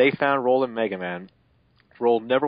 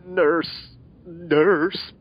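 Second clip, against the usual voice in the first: calling the nurse; 6 semitones higher, 4 dB louder than usual. Acted. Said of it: "Mega Man said".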